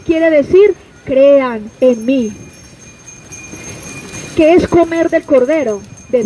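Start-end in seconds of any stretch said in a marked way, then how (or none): 1.0-2.3 slow emphasis. Acted. Explaining what Jesus meant.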